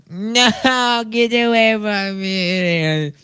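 high, slow, loud whiny plea; kid's panicked plea. Retold or imitated. Kid pleading with the teacher, high panicked whine. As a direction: beg like a terrified kid. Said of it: "the kid was like".

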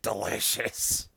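low, drawn-out character catchphrase; Little Nicky. Retold or imitated. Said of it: "related to Little Nicky and, and his whole thing".

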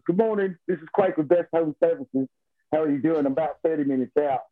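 lightly put-on British phone voice; British accent. Salesman phoning a London customer, put-on British accent. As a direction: make a sales call in a mild British accent. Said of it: "good enough to do a British accent".

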